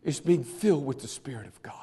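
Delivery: fast, hushed whisper. Acted. Preacher hushing the church mid-sermon, whispered. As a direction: drop to a whisper to draw them in.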